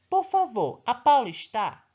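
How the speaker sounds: teacher acting a caller asking for Paula, polite question. Shown as a demonstration. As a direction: ask politely as if calling someone. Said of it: "Está fazendo o quê? Uma perguntinha".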